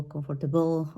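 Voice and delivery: comfortable with every syllable sounded, con-for-ta-bol; learner's mispronunciation. Shown as a demonstration. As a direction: say "comfortable" unreduced, like a student. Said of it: "students are gonna pronounce it like".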